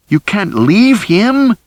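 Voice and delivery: high, slow, loud outcry; shouted. A narrator's reading. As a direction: drag out the accusation in a high shout. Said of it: "Rosie shouted".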